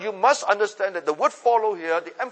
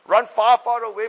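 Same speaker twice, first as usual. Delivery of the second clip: loud command; 3 semitones higher, 5 dB louder than usual. Real, not acted. Repeats the command to flee.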